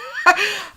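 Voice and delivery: short, very high-pitched laugh. Real, not acted. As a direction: break into a high little laugh. Laughs at being near tears.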